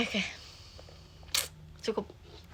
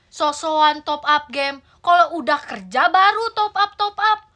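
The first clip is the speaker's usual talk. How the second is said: higher, louder scolding mother; angry Sundanese mother; 3 semitones higher, 4 dB louder than usual. Acted. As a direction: scold the kid in despair. (ibu Sunda memarahi anak)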